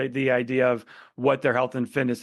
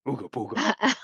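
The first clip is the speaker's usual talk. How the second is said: dopey cartoon bellow. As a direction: boom it like a dim cartoon caveman. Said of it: "So I go".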